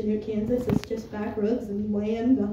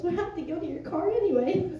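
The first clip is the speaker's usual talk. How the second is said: a higher voice breaking into laughter; laughing; 5 semitones higher than usual. Retold or imitated. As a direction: say it while laughing at her. Mom answers laughing.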